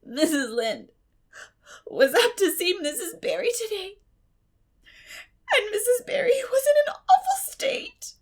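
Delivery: high, loud, sobbing wail. A narrator's reading. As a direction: wail the bad news through tears. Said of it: "she wailed".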